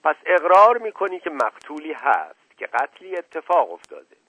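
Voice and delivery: shouting. Acted. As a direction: pounce on the admission with a shout. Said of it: "خیره شد و فریاد زد".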